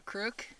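"crook" with an oo vowel for creek; dad's crook for creek. Retold or imitated. Retelling dad's odd creek, "crook" rounded. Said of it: "when he meant creek".

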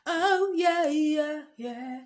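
high, loud oh yeah; excited. Real, not acted. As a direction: punch out a giddy yeah. Playful exclamations while goofing.

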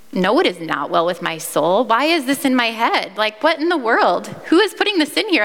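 baffled and upset, demanding who put the song there; building, bewildered protest; exasperated disbelief. Retold or imitated. Teen questions the hymn in head.

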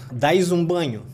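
dás said islander-style, as "daiz"; Santa Catarina islander accent. Shown as a demonstration. Showing how islanders praise someone, light islander accent. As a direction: say it like a Florianópolis islander. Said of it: "Eles falam assim".

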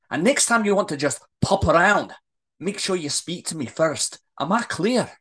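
indignant telling-off, firmly laid down; worked-up, emphatic dressing-down; angry rant. Acted. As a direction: scold him with mock quotes, then lay down the law. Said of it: "her voice gets louder and louder".

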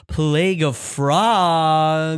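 long, held "Frogs"; drawn-out title reveal. Pretend. Host teasing the chapters after the break, drawn-out reveal. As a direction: stretch out "Frogs" theatrically.

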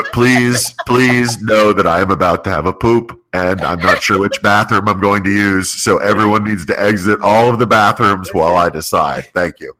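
formal PA announcer voice; airport announcement. Pretend. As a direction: announce it over the speakers. Mock mall PA announcement.

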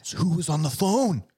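high-pitched, dramatic question; mock-horrified punchline. Co-host delivers the creepypasta twist, mock-horrified. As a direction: leap up high for the big reveal. Punchline of retold scary story.

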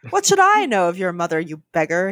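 put-on mildly sneering young snob; haughty contempt, understated. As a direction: look down your nose at a beggar. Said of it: "he said with a sneer".

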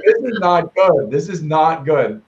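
slow, weighted words of mock dismay; retold slow, deliberate realization; dawning dismay. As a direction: draw each word out as it sinks in. Retells own dawning dismay.

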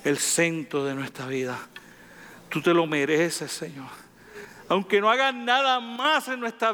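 earnest spoken prayer to God. Acted. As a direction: pray it, devoted and steady. Pastor prays aloud to God. (oración sincera y devota)

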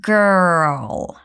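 put-on girl drawn out slowly, r held long; slow model pronunciation. Shown as a demonstration. Teacher stretching girl for learners. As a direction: stretch girl out for students to copy. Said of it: "Pay close attention to the pronunciation of girl".

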